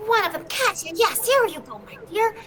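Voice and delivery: put-on old goblin. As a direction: hand it over like a fussy little goblin. Goblin hands ticket.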